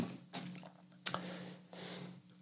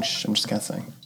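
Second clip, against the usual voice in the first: hushed unvoiced whisper; 3 semitones lower, 11 dB quieter than usual. Real, not acted. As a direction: whisper so as not to disturb. Hushing while watching movie.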